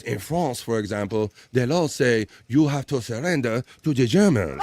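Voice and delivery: put-on a shaky French accent that slips away; mock French accent. Reading a viewer's France joke in a wobbly French accent. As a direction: read it in a half-hearted French accent. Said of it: "I don't know where my accent kinda went off there".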